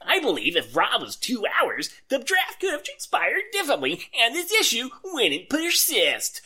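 Casey Kasem voice. Acted. Reading a fan's complaint as a countdown host. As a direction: read the fan's message like Casey Kasem introducing a hit. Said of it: "What is happening to Casey Kasem?".

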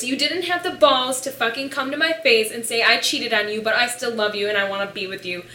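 loud, indignant rant; retold angry rant. Angry quote to boyfriend in retold fight.

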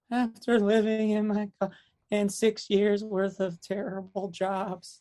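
high, slow, spelled-out retort; pointed retort. Retold or imitated. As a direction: draw each word out to make the point. Sarcastic acted answer to envious people.

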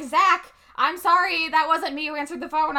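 lightly acted call from the stage; calling out to Zach. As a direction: shout his name with a light apology. Jenny calls out to Zach.

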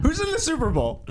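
high, laughing question. Real, not acted. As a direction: ask it while cracking up.

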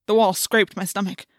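ordinary delivery

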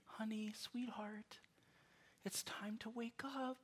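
soft, high, whispered coaxing; gentle parent wake-up voice. Retold or imitated. Parent gently waking a child for school, soft whisper. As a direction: coax a sleeping kid awake in a hush. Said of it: "you're like".

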